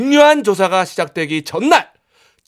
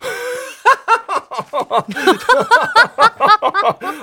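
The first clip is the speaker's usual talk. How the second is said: long high laugh; 11 semitones higher than usual. Real, not acted. Hears the nickname, cracks up.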